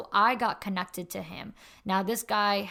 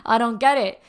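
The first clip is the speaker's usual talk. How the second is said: flustered outburst, louder; 3 semitones higher, 11 dB louder than usual. Retold or imitated. To the mentor, confused and flustered, blurting louder. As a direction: blurt it out, caught off guard. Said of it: "I got, like, flustered".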